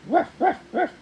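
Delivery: high, loud yapping barks; dog Hero barking at the toads. A narrator's reading. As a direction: bark like a little dog at intruders. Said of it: "started barking".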